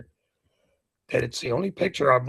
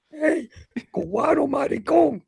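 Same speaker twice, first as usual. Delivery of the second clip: calling out; 12 semitones higher than usual. Retold or imitated. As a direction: sing it out across the street to tease. Calling out from across street.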